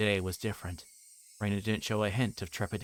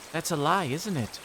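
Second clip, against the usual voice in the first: put-on higher, singsong girlish voice; sweetly insistent, with menace underneath; sweet creepy girl; 7 semitones higher, 3 dB louder than usual. Reina coaxing Keiichi to talk, creepy sweetness.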